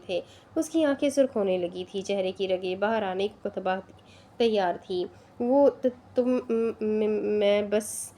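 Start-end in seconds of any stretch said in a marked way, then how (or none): 5.4-8.1 tripping over the first sounds; stutter, caught off guard; a touch of panic in the stumbles; flustered stammer. A narrator's reading. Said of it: "نازلی بوکھلا گئی تھی".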